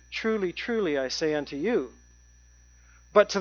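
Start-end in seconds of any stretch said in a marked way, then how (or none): 0.1-1.9 "Truly, truly" dropped low and soft, skimmed over; offhand reading. Retold or imitated. Preacher showing how we skim the words, soft and offhand. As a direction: toss it off like a familiar phrase. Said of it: "we just hear him say".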